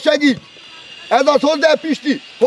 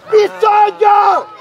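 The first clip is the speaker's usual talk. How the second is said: slow, louder stretched repeat; drawn-out emphasis; 4 semitones higher, 4 dB louder, much slower than usual. Real, not acted. Coach echoing the play on the pitch, stretched and loud.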